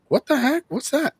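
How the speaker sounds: high, loud disbelieving squeal; mock surprised crowd.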